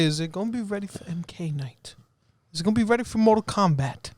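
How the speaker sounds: hushed teasing question; whispering. Real, not acted. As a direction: whisper it like a secret.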